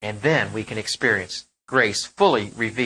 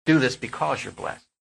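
gentle grace voice. Shown as a demonstration. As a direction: say it gently, as a gift. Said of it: "Grace says".

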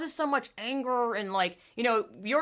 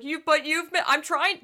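mock whiny teen; 8 semitones higher, 5 dB louder than usual. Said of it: "she's like".

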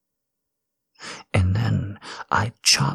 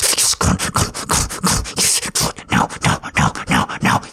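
urgent forceful whisper; faster than usual. Acted. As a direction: push her hard while keeping it hushed. Urgent commands during the act.

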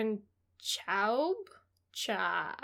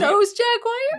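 mock-dramatic, higher, louder, slow; spooky announcer; 12 semitones higher, 9 dB louder, slower than usual. Co-host hamming up the book title, spooky and slow. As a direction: ham up the title like a creepy trailer.

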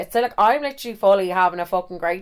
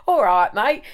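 exaggerated English lad accent; 3 semitones higher, 4 dB louder, slower than usual. Shown as a demonstration. Storyteller hunting for an English accent, hammed-up English lad. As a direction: try on a laddish English accent. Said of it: "What is an English accent?".

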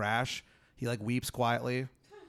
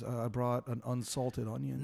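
lightly voiced timid oddball; a hint of a socially awkward figure; awkward guy; 4 dB quieter than usual. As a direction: offer it awkwardly, a touch subdued. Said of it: "this guy, like, is just awkward".

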